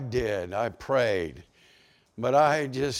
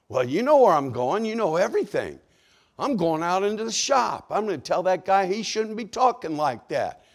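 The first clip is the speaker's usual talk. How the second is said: indignant; 5 semitones higher, 3 dB louder than usual. Retold or imitated. Acts himself arguing back at God.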